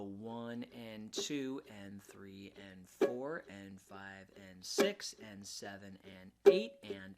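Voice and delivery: slow steady counting in eighths; counting each beat with no accents; slow even count. Shown as a demonstration. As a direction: count it out evenly and slowly. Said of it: "that would be the whole chord".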